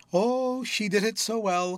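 high, rapturous exclaim; sudden ecstasy. A narrator's reading. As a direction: gush with delight. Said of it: "in a sudden ecstasy".

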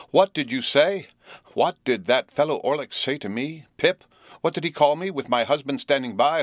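high and loud, half screaming; beginning to scream. A narrator's reading. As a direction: scream the questions in outrage. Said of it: "beginning to scream".

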